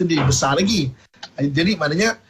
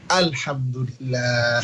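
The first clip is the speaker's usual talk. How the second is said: calm thanks; 4 semitones lower, much slower than usual. Acted. Fatimah's calm grateful reply.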